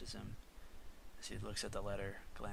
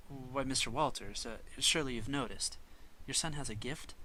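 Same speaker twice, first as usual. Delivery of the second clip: proper professor; 3 semitones higher, 5 dB louder than usual. Acted. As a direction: gently persuade the doubtful father. Professor voice in the pitch.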